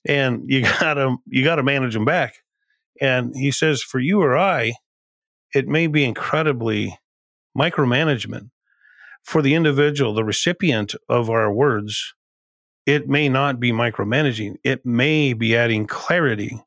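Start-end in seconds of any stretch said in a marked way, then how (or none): 0.1-2.4 put-on light hillbilly accent, slightly raised; Dave Ramsey hillbilly accent. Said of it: "he says this in his hillbilly accent". 3.8-16.6 put-on mild hillbilly accent, slightly raised; lightly imitating a Southern hillbilly accent; Dave Ramsey hillbilly accent. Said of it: "he says this in his hillbilly accent".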